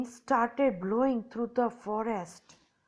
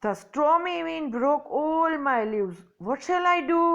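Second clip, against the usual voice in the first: higher and louder, slow mild lament; a tree half-wailing over its broken leaves; mildly tearful, rising cry; 5 semitones higher, 3 dB louder, much slower than usual. Acted. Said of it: "The bubble tree wept loudly".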